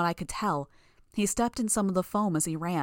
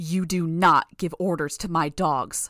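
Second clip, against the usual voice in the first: slow, loud growl, close to the ear; 5 dB louder than usual. Narrator reads a woman speaking right into the narrator's ear: growled. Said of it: "she growled in my ear".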